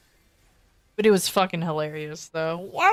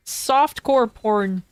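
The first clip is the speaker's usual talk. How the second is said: slow pointed emphasis; 2 semitones higher, much slower than usual. Retold or imitated. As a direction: drag out Softcore porn very slowly and deliberately. Asking manager pointed question.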